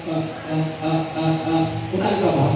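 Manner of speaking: mock stammer on ah, ah before utal ka ba; stuttering demo. Shown as a demonstration. Preacher imitates a stutter for the church, mock stammer. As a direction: stammer through ah, ah, then ask utal ka ba. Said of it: "Imagine yung utal na magsalita ka".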